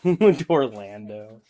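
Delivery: slow amused Dorlando, falling; chuckling, drawn-out Dorlando; laughing. Real, not acted. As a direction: savour the silly word through a laugh. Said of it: "He's just making shit up now".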